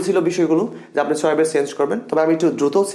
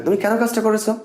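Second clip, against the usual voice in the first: high, scolding question; a teacher's demo of scolding; reproachful expression; 6 semitones higher than usual. Shown as a demonstration. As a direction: blame them for the needless mistake. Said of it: "এই expression দেন".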